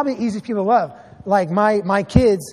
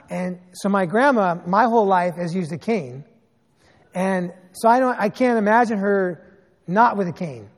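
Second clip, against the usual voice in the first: ordinary talk, nothing marked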